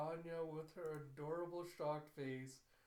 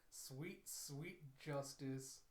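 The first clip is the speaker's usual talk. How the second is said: savoring; much slower than usual. Real, not acted. Relishing the villain's comeuppance.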